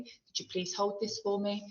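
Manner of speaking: gently asking a favour; courteous, asking nicely; polite request. Shown as a demonstration. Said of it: "a polite request for somebody".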